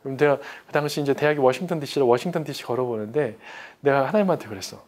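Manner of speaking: normal talking voice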